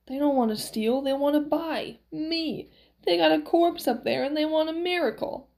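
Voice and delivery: lightly voiced miracle man pleading his news; Max, eager. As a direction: explain it with a touch of excitement. Max explains the visitors to Valerie.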